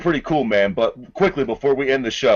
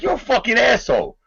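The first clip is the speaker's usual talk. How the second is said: high, heated imitation of an angry Tyson; a hammed-up angry outburst; mock Tyson rant; 6 semitones higher than usual. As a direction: rant like a riled-up boxer, raised pitch. Tyson retold yelling at reporter.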